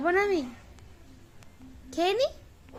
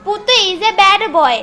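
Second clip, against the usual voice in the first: slow, drawn-out playful scold; mock scolding; 3 semitones higher, 5 dB louder, much slower than usual. Owner playfully calling Putu naughty, slow mock scolding. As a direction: tease Putu as naughty, slowly.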